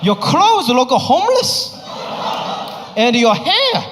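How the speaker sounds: imitating an old Asian mom's accent, nagging. Mom nagging her son about his looks, in a Cantonese-accented voice. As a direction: nag like a blunt immigrant mom. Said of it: "she's like".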